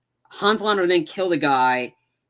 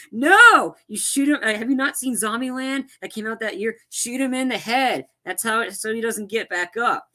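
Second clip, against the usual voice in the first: mock yell at the screen; 6 semitones higher than usual. Fan yelling at Shosanna to finish him off, high exasperated shout.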